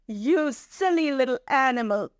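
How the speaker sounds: lightly voiced mocking lion, after a laugh; scoffing lion. Lion laughing off the mouse's offer, mildly scornful. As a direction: dismiss the little one with amused scorn.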